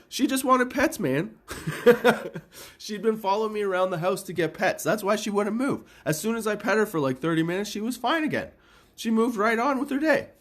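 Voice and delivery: high, giggly telling through laughter; can't stop grinning while telling it; amused, laughing. Real, not acted. Owner recounting his cat's antics to listeners, giggling high.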